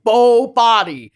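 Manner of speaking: slow, drawn-out "Bo Body"; lightly imitating Creed chanting; Creed impression. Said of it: "he's like".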